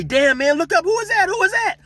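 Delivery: surprised homie shouting; excited shout. Retold or imitated. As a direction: yell it pointing down the street. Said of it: "somebody say".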